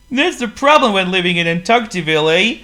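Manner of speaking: high, loud squeaky penguin; a gloomy little penguin sighs. A narrator's reading. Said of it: "replied Waldo".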